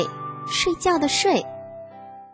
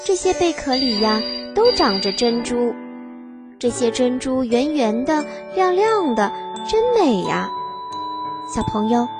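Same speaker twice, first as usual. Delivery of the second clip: put-on reading to a toddler.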